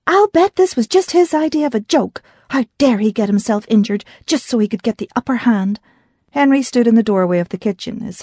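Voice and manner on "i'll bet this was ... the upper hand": ranting. Acted. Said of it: "Grace ranted".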